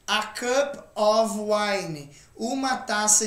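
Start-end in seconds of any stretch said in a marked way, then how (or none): 0.1-2.1 slow, careful English phrase; slow model phrase. Shown as a demonstration. Teacher models the phrase slowly for students. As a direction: say it slowly as the example. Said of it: "por exemplo".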